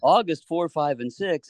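bright sales-pitch delivery; telemarketer voice. Pretend. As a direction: read the dates like a telemarketer. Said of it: "sound like a telemarketer here and say".

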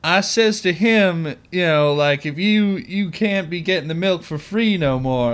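mock Southern accent. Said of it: "her attempts to be, like, Southern".

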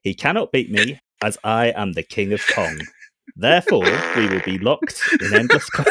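calm computer voice; robot voice. Acted. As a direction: speak like a ship AI. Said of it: "My robot voice?".

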